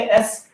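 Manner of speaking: slow, drawn-out एस as a model for the class; letter S said slowly. Shown as a demonstration. Teacher modelling एस slowly for students. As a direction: sound out एस slowly so students hear the vowel first. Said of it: "ये बोलते हैं".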